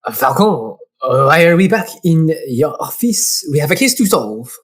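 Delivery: lightly played French assistant, questioning; understated French accent. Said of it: "He's gonna be French".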